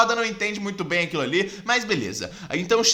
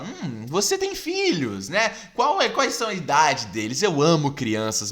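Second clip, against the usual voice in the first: lento e insinuante, ameaça velada; Coringa ameaçador; 2 semitones lower, slower than usual. Retold or imitated. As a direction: fala devagar, saboreando a ameaça aos filhos. Coringa ameaça os filhos de Jim. (o Coringa provoca Jim sobre os filhos, lento e insinuante)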